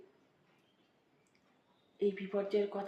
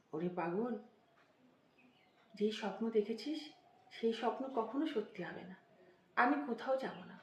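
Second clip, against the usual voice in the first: soothing mother. Retold or imitated. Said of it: "আদর করে, শান্ত করে".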